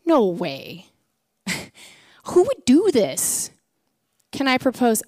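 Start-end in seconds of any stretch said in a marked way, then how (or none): 0.1-3.5 slow, amused disbelief; mock disbelief. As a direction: laugh off the idea as unthinkable. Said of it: "Now we think".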